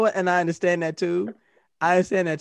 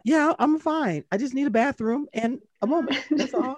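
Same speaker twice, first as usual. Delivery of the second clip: strained high voice; 9 semitones higher than usual. Retold or imitated. Pretending to be fine, nervous.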